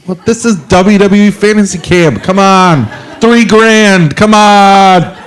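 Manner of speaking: high, pleading mock protest; whiny protest. To the camp staff, a high whiny protest. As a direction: whine it like a cheated customer.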